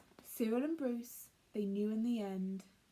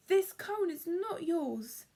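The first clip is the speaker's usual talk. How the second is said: higher, louder, slow insistence; indignant protest; 5 semitones higher, 5 dB louder than usual. Acted. Cyril insisting to Bruce the cone isn't his, slow and loud. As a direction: lay claim, word by word.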